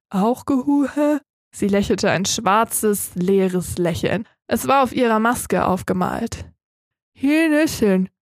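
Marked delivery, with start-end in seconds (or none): 0.1-1.2 slow, slurred without a tongue; tongueless mumble. Acted. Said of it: "wollte ich sagen". 7.1-8.1 slurred mumble through toothless mouth; mumbling. Acted. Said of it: "nuschelte sie".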